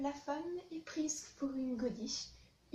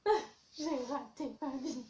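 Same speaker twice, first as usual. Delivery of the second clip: mock sobbing; 4 dB louder than usual. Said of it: "en train de se dire".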